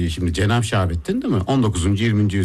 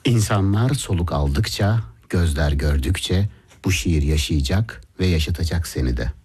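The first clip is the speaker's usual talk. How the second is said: poem recital; slower than usual. Acted. Host repeats the last lines on request, slow poetic recital. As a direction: recite the closing lines slowly, letting the ending drop. Rereads closing couplet on request.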